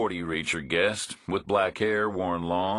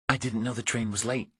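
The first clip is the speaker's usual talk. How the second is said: lightly voiced woman, pitched higher; woman's voice; 6 semitones higher than usual. A narrator's reading. Woman waiting at the depot answers Reacher, lightly voiced higher. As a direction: play her as a wary stranger, a touch higher.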